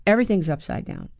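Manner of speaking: ordinary talk, nothing marked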